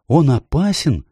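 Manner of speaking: put-on high, anxious child's question; a worried girl asking; Lucy's question. A narrator's reading. Lucy asks Mr Beaver, high and worried.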